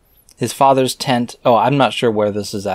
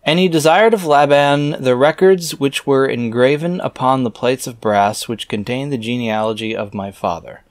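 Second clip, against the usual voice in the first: scripture reading; 3 semitones higher than usual. Acted. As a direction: intone the archaic words like a preacher. Reads scripture aloud.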